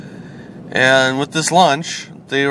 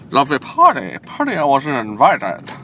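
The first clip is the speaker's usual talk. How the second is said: Jim Carrey impression. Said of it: "Jim Carrey".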